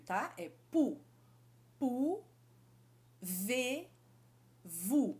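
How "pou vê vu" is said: "Pou", "Vê", "Vu" each separated; syllable by syllable. Shown as a demonstration. Teacher breaking French phrase into syllables. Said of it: "eu tenho três sons aqui".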